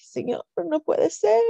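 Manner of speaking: slow, high, tearful plea; crying out. Retold or imitated. Wife hearing her husband died, crying out in grief. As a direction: break down pleading with the Lord. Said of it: "Yo me solté llorando".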